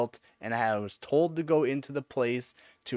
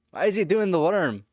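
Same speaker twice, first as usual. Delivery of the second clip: laughing; 9 semitones higher, 7 dB louder than usual. Pretend. Laughing, imagined viewer.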